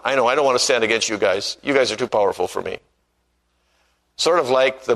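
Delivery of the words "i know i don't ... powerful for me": a feeble king giving way to his nobles; weak, cowed king. Retold or imitated. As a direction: cave in quickly, no backbone. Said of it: "Zedekiah said".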